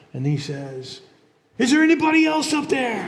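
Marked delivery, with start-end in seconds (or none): 1.6-3.1 nervous punchline. Retold or imitated. Man on the cliff calls up to heaven, high with a laugh. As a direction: toss the doubt up with a laugh.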